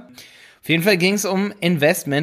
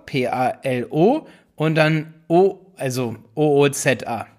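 spelling slowly; 2 semitones lower than usual. Shown as a demonstration. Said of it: "ganz kurz mal ganz langsam".

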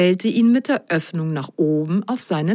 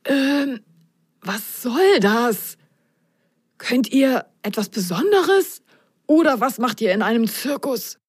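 magician murmuring; 5 semitones higher than usual. Acted. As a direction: murmur it aside to the socks. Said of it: "raunte den beiden Socken zu".

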